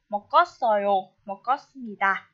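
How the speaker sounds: mokosoyo with the k carried into the next syllable; linked sounds. Shown as a demonstration. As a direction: say mokosoyo, mokosmita joined up, slowly, no break after mok. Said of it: "phải nối âm nhá".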